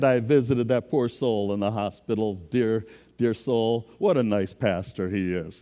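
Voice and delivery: lightly hammed-up smug pastor; mock pious boasting. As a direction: puff yourself up sweetly. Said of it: "I was now going".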